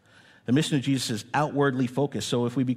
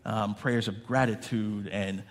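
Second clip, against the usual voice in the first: prayer. Acted. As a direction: pray earnestly over the room. Pastor prays for the congregation.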